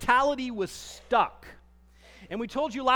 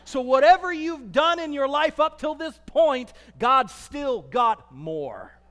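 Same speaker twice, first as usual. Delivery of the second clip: preaching climax; 3 semitones higher, 6 dB louder than usual. Real, not acted. Pastor promising the congregation there is more, shouting. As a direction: land it like a promise.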